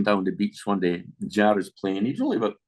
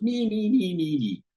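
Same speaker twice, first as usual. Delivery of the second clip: eager volunteers; 10 semitones higher than usual. Retold or imitated. Job seekers eagerly volunteering.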